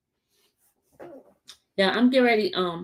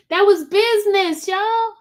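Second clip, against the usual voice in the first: excited shout; 12 semitones higher, 5 dB louder than usual. Real, not acted. Shouts catchphrase to viewers.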